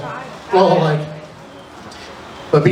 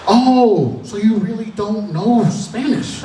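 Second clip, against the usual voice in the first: dawning realization; 4 semitones higher, much slower than usual. Retold or imitated. Acts the teacher's realization.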